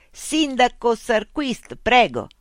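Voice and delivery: loud, high robot policeman hail; calling out. A narrator's reading. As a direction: call out slowly, drawing out each word.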